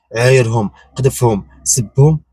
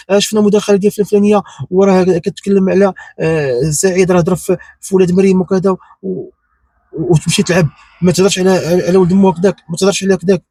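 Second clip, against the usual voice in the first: higher, mocking voice of others; mocking quote; 6 semitones higher than usual. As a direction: mimic them with a sneer.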